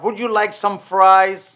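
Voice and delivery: very slow, each word separate; slow model sentence. Shown as a demonstration. Teacher slowly modelling a British question. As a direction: say it slowly for learners. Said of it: "British जो है वो बोलेगा".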